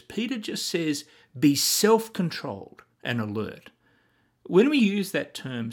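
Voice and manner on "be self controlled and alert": brief battlefield command. Shown as a demonstration. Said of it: "there's no time for unnecessary words".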